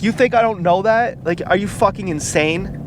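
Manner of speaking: retold anger. Angry man retorting to being called cowardly, retold anger. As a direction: throw back incredulous questions, mildly heated. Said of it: "he got so angry".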